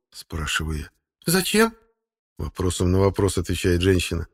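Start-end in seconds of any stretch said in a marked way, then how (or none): 1.3-1.8 high woman's voice, bewildered; puzzled woman. A narrator's reading. Wife answering the narrator with a question, high woman's voice. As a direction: toss the question back.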